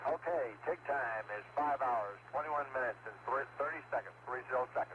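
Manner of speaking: talking with mouth full of food; chewing dried fruit while speaking. Real, not acted. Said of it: "You have to excuse me, I'll have a hard time talking with my mouth full".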